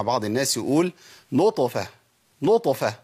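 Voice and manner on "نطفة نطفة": "نطفة" with an extra vowel after the ط, "notofa"; overdone qalqala. Retold or imitated. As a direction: overbounce the ط in "نطفة" into a syllable. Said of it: "إزاي المبالغة في القلقلة؟". ("نطفة" بقلقلة مبالغ فيها)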